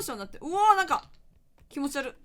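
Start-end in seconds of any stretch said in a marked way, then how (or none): 0.4-1.1 surprised. Real, not acted. Startled by slow-motion effect.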